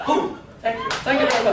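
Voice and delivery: low crooner's thanks; rock star sign-off. Acted. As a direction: thank the crowd like a lounge-show idol. A singer's catchphrase closing the speech.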